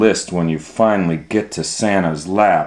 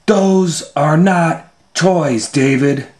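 mild scolding; 7 semitones higher than usual. Acted. Scolding child with ornaments.

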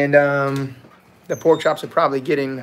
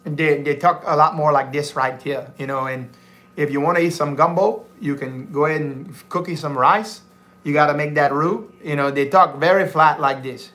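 flat Cajun accent; 2 semitones lower than usual. Shown as a demonstration. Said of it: "that'll have a very flat accent".

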